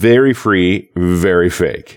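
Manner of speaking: free and fake stretched slow, emphatic. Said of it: "Emphasis on the fake".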